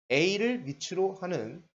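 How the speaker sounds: slow, measured reading of the term; deliberate teacher's read-out; reading out notation. Shown as a demonstration. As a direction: read it out slowly, phrase by phrase. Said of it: "이렇게 읽어요".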